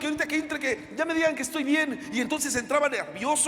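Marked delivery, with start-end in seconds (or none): 0.0-2.1 nervous prayer. Pretend. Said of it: "iba al médico y decía".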